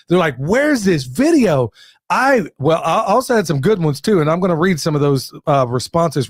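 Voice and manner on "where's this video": slow, drawn-out mock demand; playfully exaggerated indignation; mock outrage. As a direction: imitate an indignant viewer, stretching the words. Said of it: "in absolute anger".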